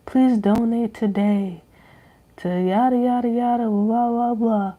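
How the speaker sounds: lightly mock a donation ad; charity ad voice. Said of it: "they be like".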